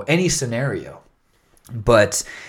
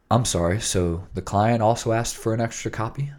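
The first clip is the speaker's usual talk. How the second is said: low FM DJ voice. Acted. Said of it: "it's the low F M D J voice".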